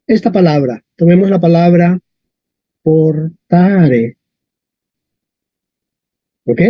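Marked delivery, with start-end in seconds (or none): 2.8-4.2 "portare" drawn out, weight on the long A; stress on the A. Shown as a demonstration. Teacher introduces the Latin word, stressing the A in "portare". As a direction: say "portare" slowly, leaning on "ta". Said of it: "la fuerza está en la A".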